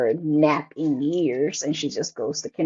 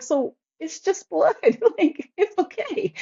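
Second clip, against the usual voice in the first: reassuring mom; 12 semitones higher than usual. Retold or imitated. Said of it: "I'm trying to calm her down".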